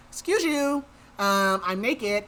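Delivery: mock indignation. Naked bather to the intruding fairy, mock indignant. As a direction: act out being affronted by an intrusion. Voicing bather walked in on undressing.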